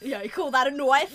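Crocodile Dundee Australian. Acted. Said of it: "fucking Crocodile Dundee over here".

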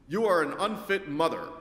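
flat machine voice announcing; robot voice. Retold or imitated. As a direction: speak like a kiosk robot. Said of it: "it says in its robotic voice".

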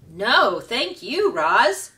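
loud shout from the crowd. Acted. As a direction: call it out loud and happy. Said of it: "shouted a voice".

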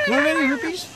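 high, squeaky disbelief; a shopkeeper squeaks in disbelief at a broke customer; incredulous. Acted.

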